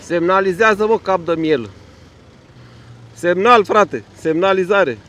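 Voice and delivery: telling a driver to use his indicator; scolding yell. Real, not acted. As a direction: yell at him to signal. Yelling at driver to signal.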